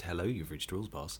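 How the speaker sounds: very soft, slightly low phone greeting; understated character greeting. Retold or imitated. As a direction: murmur a mock answerphone greeting. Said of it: "don't even think it was a French".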